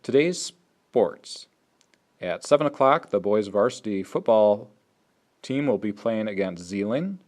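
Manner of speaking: loud, deliberate sports announcement; nice and slow read. Shown as a demonstration. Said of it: "but go nice and slow".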